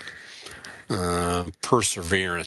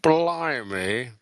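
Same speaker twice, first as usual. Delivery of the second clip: put-on British accent; 5 semitones higher than usual. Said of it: "do it in a British accent".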